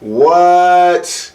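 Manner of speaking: high, loud stunned what; can't believe your eyes; incredulous high call; real disbelief. Real, not acted. Reacting to the deer.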